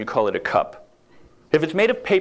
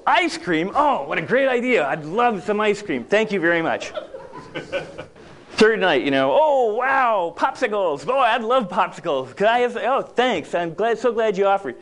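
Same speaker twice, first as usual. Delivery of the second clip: higher, gushing mock-excited thanks; overdone delight; 3 semitones higher than usual. To wife Carolyn, hammed-up delight over ice cream. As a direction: ham up the delight.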